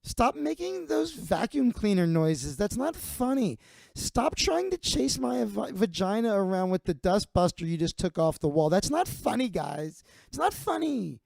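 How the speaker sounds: high, whiny, indignant woman's voice; a prissy woman scolding the guys; whiny Sarah. Retold or imitated. Upset barfly scolds the guys, high and whiny. Sarah protesting the dustbuster prank.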